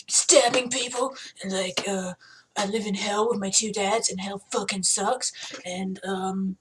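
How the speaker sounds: low gruff Batman-style voice, understated; Damien LaVey. Shown as a demonstration. Damien introducing himself from hell, low gruff voice. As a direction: play it savage and hardcore, slightly low. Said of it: "I get all low and Batman-y, but, like, savage".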